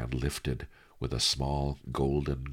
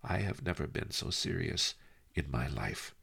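calm; 5 dB quieter than usual. Acted. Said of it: "he said calmly".

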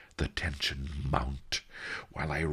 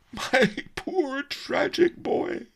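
put-on much higher, louder, slow wail on "my poor tragic boy"; weeping; 4 dB louder, slower than usual. Merchant wails over the boy, slow loud weeping. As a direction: sob it out loud. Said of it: "he wept".

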